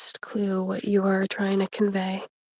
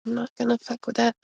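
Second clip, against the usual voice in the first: sniffly; 2 semitones higher, faster than usual. Real, not acted. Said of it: "Sorry, I'm sniffly".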